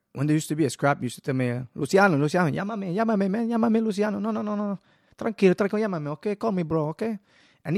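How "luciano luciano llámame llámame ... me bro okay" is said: put-on higher, loud Spanish-accented buddy; lightly voiced Latino bouncer, hands-up calming. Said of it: "Obviously Latino".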